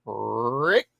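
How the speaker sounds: cocky, pretentious, drawn-out taunt; Negan. Retold or imitated. Negan through Jason's mask taunting Rick, cocky and pretentious. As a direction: stretch the name, low and cocky, rising. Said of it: "cocky, pretentious voice".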